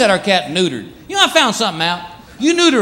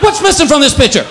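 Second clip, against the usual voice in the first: hammed-up offended cat voice; outraged cat; 5 semitones higher than usual. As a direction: play the wounded cat showing off his loss. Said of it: "It's like".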